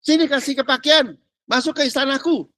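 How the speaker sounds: a queen coaxing a mourner to enter the palace; Esther's gentle plea. Retold or imitated. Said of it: "Esther dia bilang".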